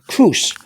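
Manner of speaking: "Cruz" said as kroos, the U as oo; pronunciation demo. Shown as a demonstration. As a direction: show the oo sound in "Cruz". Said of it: "The U sounds".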